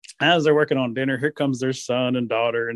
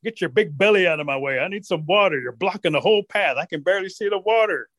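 slightly raised, insistent rabbit voice; pushy rabbit; 4 semitones higher than usual. Acted. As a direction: demand the path from a big bear. Rabbit ordering Bear aside.

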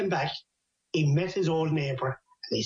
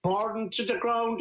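slow, higher aghast echo; acted disbelief; 4 semitones higher, slower than usual. Man learning his house burned, acted disbelief. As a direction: draw it out in pitched-up disbelief.

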